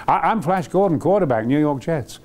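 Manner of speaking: earnest hero. Retold or imitated. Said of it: "which is so pure".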